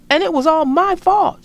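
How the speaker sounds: loud, high confession; shouting. Acted. Brother shouting his confession to Mama. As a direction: blurt it out loud. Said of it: "shouted Brother".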